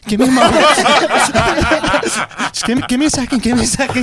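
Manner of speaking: mock self-restraint, repeated as if holding back; forced compassion. Hurt man holding off his girlfriend, mock forced patience. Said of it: "used every ounce of compassion and empathy".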